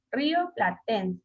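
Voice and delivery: "Río platense" slowly, leaning on "ten" in "platense"; syllable stress demo. Shown as a demonstration. Teacher asks pupil where "Río platense" takes its accent, slow stress on "ten". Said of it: "En qué parte de la palabra".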